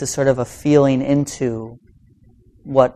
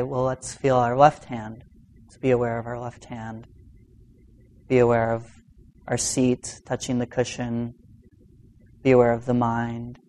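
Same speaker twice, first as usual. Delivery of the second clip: guided meditation voice; 4 dB quieter than usual. Shown as a demonstration. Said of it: "now I could say".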